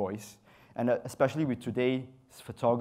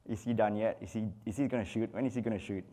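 quick, softer mock wondering; waiting model's thoughts; 3 semitones lower, 4 dB quieter, faster than usual. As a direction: lightly imitate a model wondering to herself. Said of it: "She doesn't go".

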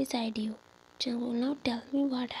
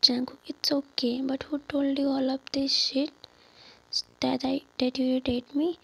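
pushing hard, louder, demanding who said it; raised voice; 5 dB louder than usual. Acted. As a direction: insist loudly on knowing who told her. Jungkook confronts her, demanding answers.

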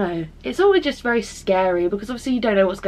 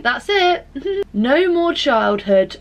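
on the verge of tears; 5 semitones higher, 4 dB louder, slower than usual. Real, not acted. Tearful about boyfriend leaving.

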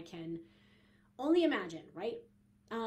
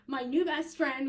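a laughing, louder and higher "my new best friend"; laughing repeat; 4 semitones higher, 9 dB louder than usual. Real, not acted. Host laughing as she reveals her new best friend to listeners. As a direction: giggle through the repeat as the joke lands.

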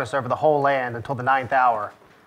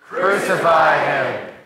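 slow, insistent crowd shout; much slower than usual. Acted. Crowd pressing Pilate all the more, shouting. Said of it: "they shouted all the more".

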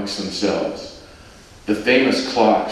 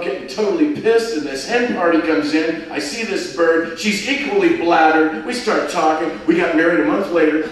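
bubbly Scouse tourist chatting up a stranger; Liverpool man; 8 semitones higher than usual. Acted. John tells how they met.

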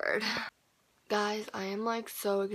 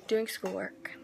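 whispered; slower than usual. Real, not acted. Whispered aside.

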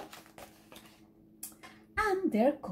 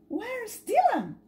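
worried; 10 semitones higher, 3 dB louder than usual. Acted. Mother finds duckling missing.

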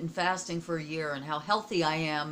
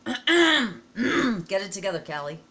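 self-scolding; 2 semitones higher, 9 dB louder, slower than usual. Real, not acted. Scolding herself after clearing throat.

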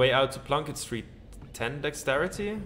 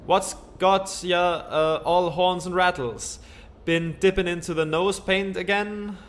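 put-on a light Western cowboy accent, a bit higher; cowboy drawl; 4 semitones higher, 3 dB louder than usual. Gabby teasing a rattled friend, Western cowboy accent. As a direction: talk like an old Western sidekick. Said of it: "Gabby doesn't talk like that".

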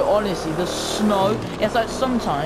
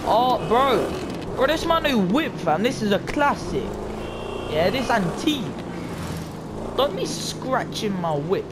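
put-on street voice; 3 semitones higher than usual. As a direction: ham up a slangy hype man showing off his whip. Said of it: "I'm not sure why I'm speaking like that".

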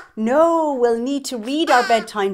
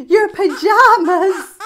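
excited reveal; 9 semitones higher, 10 dB louder, slower than usual. Acted. Guessing Wally's item excitedly.

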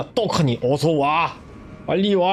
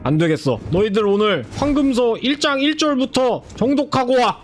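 stern librarian; 4 semitones higher than usual. Retold or imitated. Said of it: "도서관장이 막".

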